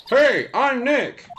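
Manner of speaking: loud, high, drawn-out call. Acted. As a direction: call it out slowly to set off a microphone. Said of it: "Maybe I'm not saying it loud enough".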